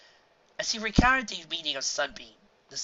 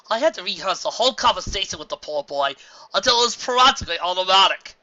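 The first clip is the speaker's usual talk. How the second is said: lively, amused mare voice; amused grown mare; mare character voice; 5 semitones higher, 9 dB louder than usual. A narrator's reading. Voicing Cloud Cover character.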